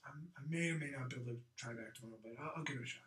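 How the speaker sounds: offhand VIP brushing off an assistant; busy important caller. Shown as a demonstration. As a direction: rattle it off quietly, as if too busy to commit. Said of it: "as if you're the busiest person".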